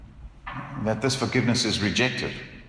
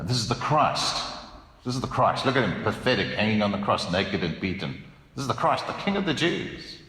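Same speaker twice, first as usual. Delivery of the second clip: ironic mocking. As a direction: sneer it like a bystander at the cross. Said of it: "It's meant to be ironic".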